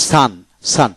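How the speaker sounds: "সান" said alone with an a vowel; pronunciation demo. Shown as a demonstration. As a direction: model "সান" twice, u sounded as a. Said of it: "সান উচ্চারিত হবে".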